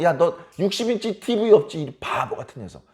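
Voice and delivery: mock taunt. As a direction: belittle the listener. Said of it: "이렇게 조롱하는 거랑".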